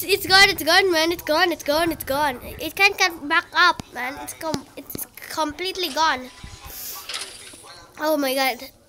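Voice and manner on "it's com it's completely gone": hushed whisper while hiding. Real, not acted. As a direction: whisper so it won't hear.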